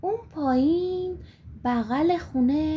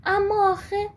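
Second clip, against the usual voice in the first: wistful sigh; 3 semitones higher than usual. Acted. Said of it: "یه آهی کشید و گفت".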